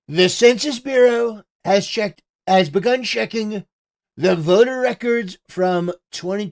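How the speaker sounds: lightly voiced Trump impression, close to own voice; a hint of Trump's cadence reading the post; Donald Trump voice. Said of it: "so I'm gonna do the Trump voice".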